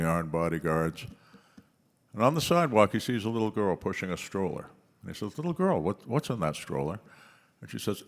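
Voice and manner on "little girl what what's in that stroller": pompous billionaire. Acted. Billionaire voiced in a joke.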